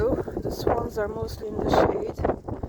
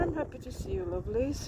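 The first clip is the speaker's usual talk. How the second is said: tender; 7 dB quieter, faster than usual. Real, not acted. Softly greeting the swans.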